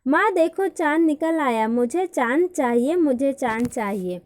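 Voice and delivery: put-on excited child calling out to mother; excited little girl shouting for the moon. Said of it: "Titu जोर से चिल्लाई".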